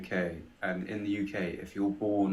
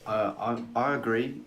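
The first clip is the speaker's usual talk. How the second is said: echoey room; 4 semitones higher, 3 dB louder than usual. Real, not acted. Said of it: "it's really echoey in here".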